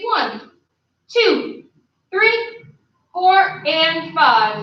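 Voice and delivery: instructor's steady beat-by-beat numbers; drill count. Real, not acted. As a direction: count the class through a hold. Counting out a held kick.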